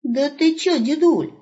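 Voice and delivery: put-on high, bright calling out to the old man; young wolf hailing grandpa; cheerful young wolf. Wolf puzzled.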